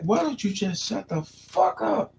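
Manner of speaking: put-on slow, rude kid voice; a bratty child, drawn out; kid mouthing off. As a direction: sass it out slowly like a bratty kid. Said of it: "He was like".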